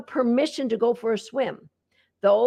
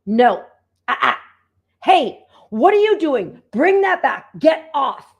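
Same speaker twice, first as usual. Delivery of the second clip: sharp scolding at the dog, louder; mock-scold the dog: hey, what are you doing; demo scolding; 6 dB louder than usual. Shown as a demonstration. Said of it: "the last group of communication is scolding".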